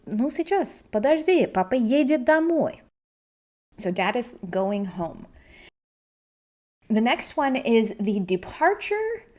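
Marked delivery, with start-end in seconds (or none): 0.1-2.8 parent answering. Pretend. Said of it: "And you would say".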